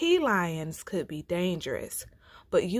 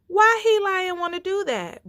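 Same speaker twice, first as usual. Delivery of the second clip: surprised bear; 12 semitones higher, 6 dB louder than usual. Acted. Bruh Bear asks, surprised.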